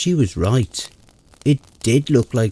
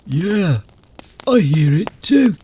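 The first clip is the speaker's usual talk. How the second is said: shaking; 4 semitones higher than usual. Acted. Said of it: "Kendrick said, shaking".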